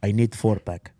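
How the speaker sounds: hammed-up old Italian man's accent, half-hearted. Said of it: "I don't wanna do an Italian accent".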